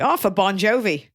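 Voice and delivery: hammed-up Australian exclamation; Australian accent. Podcaster inventing an Australian good-luck phrase, mock Australian accent. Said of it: "Don't you think Australians would say".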